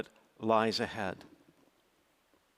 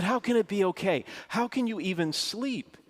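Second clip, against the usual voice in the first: outraged disbelief; 9 semitones higher than usual. Retold or imitated. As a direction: push back hard, pitched up. Arguing over the jet noise.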